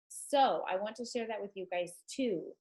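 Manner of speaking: congested, blocked-nose voice; talking through a stuffed nose. Real, not acted. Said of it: "I am so stuffed up".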